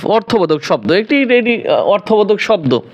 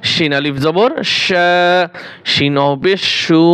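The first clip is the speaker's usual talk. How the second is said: slow drawn spelling; slower than usual. Shown as a demonstration. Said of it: "এক আলিফ করে টান দিবেন".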